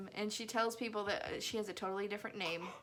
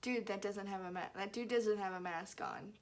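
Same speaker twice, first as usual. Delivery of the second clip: low, softer aside to oneself; muttering to self; 4 semitones lower, 5 dB quieter than usual. Retold or imitated. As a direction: re-enact a private remark in the car. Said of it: "saying it to myself, like, secretly".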